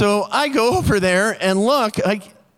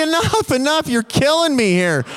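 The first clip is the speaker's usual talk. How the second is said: pained plea; 5 semitones higher than usual. Retold or imitated. Begging the doctor to stop.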